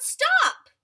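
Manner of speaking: high, loud shouted line; yelled. A narrator's reading. Narrator voicing parents yelling at a climbing child, high loud shout. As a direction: belt it out like alarmed parents. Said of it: "Her parents yelled".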